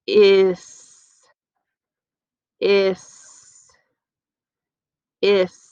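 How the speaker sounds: "Is" said with a hissed s sound; teacher stretches the chunk for kids; blended chunk. Shown as a demonstration. Teacher modeling the is chunk. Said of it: "You ready?".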